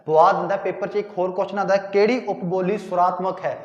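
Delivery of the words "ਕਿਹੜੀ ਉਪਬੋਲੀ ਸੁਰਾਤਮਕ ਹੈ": ordinary delivery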